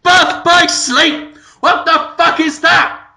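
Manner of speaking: high, loud exasperated rant. Real, not acted. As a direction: rant at the silly title. Ranting about game titles.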